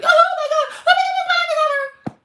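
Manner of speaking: very high, loud hammed-up shriek of despair; mock a dramatic wailer, way over the top; theatrical falsetto despair; mock drama queen. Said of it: "all this drama, theatrics you're doing".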